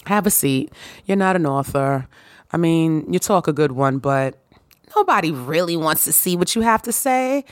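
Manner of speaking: a hint of a dismissive inner critic, quick at first; lightly voiced doubting inner voice brushing her off; imposter syndrome voice. Her imposter syndrome telling her nobody buys the book, mildly dismissive. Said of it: "my imposter syndrome was like".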